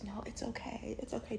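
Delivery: calm her down in a whisper; soothing whisper. Retold or imitated. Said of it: "And he goes".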